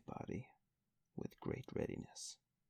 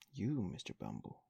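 surprised; 6 semitones higher, 4 dB louder than usual. Acted. Miss Mann astonished at Bumble.

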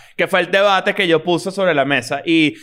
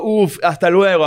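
mock farewell.

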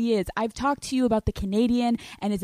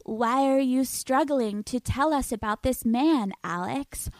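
different voice; 2 semitones higher than usual. Pretend. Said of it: "try to do a different voice".

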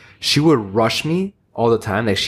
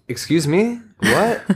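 much higher, laughing mock outrage; indignant disbelief; 8 semitones higher, much slower than usual. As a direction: act stunned at the rude lady. Quoting own indignant reaction.

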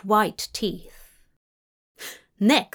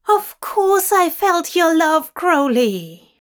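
loud, higher bark over the ranting; 7 semitones higher, 6 dB louder than usual. A narrator's reading. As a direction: bark it to cut through. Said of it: "Zira barked".

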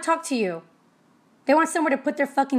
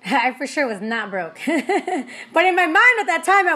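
laughing; 3 semitones higher, 3 dB louder, slower than usual. Real, not acted. Laughs about being broke.

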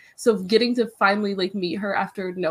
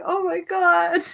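mock embarrassed squeal; 10 semitones higher, 4 dB louder, slower than usual. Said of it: "I'm like".

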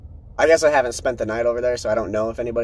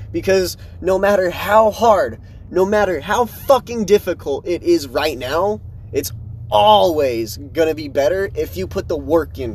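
hyping himself up higher and louder; fired up; 4 semitones higher, 3 dB louder than usual. Real, not acted. Fired-up pep talk.

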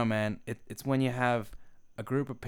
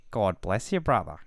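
retold religious stranger; 2 semitones lower, 3 dB louder than usual. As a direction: play a stranger offering a blessing. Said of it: "He just goes".

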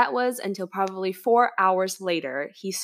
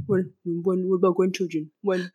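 nagging Asian parent. Pretend. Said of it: "Asian parents would never just say".

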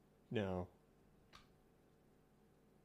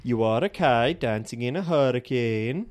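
Swedish accent attempt; 4 dB louder than usual. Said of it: "You're saying that like it's really easy".

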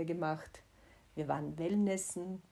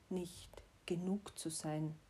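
whispered fear; 7 dB quieter than usual. Real, not acted. Admitting fear about her child.

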